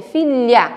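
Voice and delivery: FILHA with an open, lengthened lha; open-mouthed lh. Shown as a demonstration. Teacher repeating the lh example, careful open syllable. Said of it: "você abre a sua boquinha".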